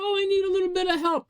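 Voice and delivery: very high, quick helpless voice; high-pitched mock cry for help; mock needy plea. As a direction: whine it fast like a fake damsel in need. Voices needy person splashing for help.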